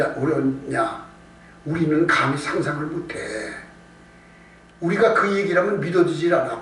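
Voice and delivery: usual speaking voice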